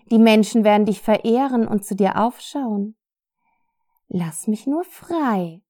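silky, melodic persuasion; purring seductively. Acted. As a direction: lure her in gently. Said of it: "Vom säuselnd melodiösen Klang".

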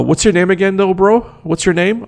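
high, careless mock bro voice; mock dumb cousin. Mocking the cousin who forgot his name, in a high careless bro voice.

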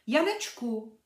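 calling a lost friend. A narrator's reading. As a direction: call out Janeček's name. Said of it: "Birlibán chtěl zavolat".

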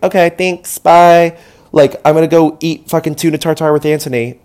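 brisk, loud offhand brush-off; dismissive. Retold or imitated. Nominee dismissing Bobby, loud and offhand. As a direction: toss it off, already walking away. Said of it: "everyone's like".

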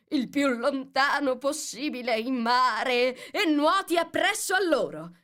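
loud, high excited cry; Gryphon shouting. A narrator's reading. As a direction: call it far out, climbing in pitch. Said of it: "gridò il grifone". (grido forte, sempre più acuto)

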